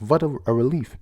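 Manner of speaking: a hint of a German accent. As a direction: read it with a mock German touch. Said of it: "Like a German".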